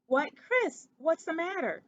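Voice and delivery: high, eager little mouse voice; a small mouse, bright and worried; young mouse Ced. Acted. Ced asks his choking cousin.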